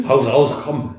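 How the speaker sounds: bursting out laughing, high. Real, not acted. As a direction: laugh through it. Laughs, urges partner on.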